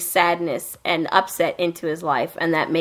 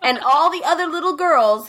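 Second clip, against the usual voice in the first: put-on lightly raised girlish voice; a touch of a little girl's pitch; high girly voice; 9 semitones higher than usual. Friend retelling anime girls, a lightly high girly voice.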